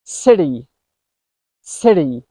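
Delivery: City with the T as a quick D; American flap T. Shown as a demonstration. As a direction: tap the T in City lightly. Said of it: "try some words using this".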